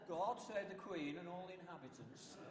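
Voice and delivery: falling formal proclamation; town crier closing. Shown as a demonstration. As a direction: end the cry with a solemn fall. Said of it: "That was a court announcement".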